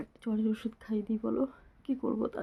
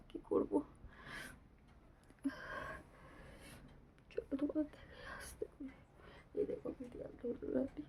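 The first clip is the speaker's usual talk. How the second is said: weak hushed voice, half whispered; speaking softly, unwell; 2 semitones higher, 5 dB quieter than usual. Real, not acted. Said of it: "সেই জন্য আস্তে আস্তে কথা বলছি". (অসুস্থ, আস্তে আস্তে নিচু গলায়)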